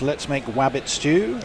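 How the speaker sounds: "wabbit" with a W in place of the R; wabbit for rabbit. Retold or imitated. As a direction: say "wabbit" with the R turned into a W. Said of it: "I said it like that".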